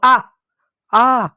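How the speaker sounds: demonstrated "aah" of someone hit; mild imitated hurt cry, held "aah"; mock cry of pain. Shown as a demonstration. Teacher imitating a beaten man to teach a vowel, mock cry. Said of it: "ऐसा चिल्लाता".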